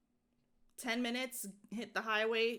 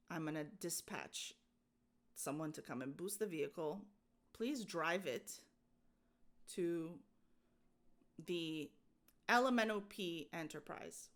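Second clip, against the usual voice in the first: flat agent voice; 3 semitones lower, 4 dB quieter than usual. Retold or imitated. Imitating the roadside agent.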